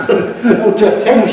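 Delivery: can't believe it, laughing; laughing retold shock. Telling how Capes got thrown, laughing. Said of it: "I said".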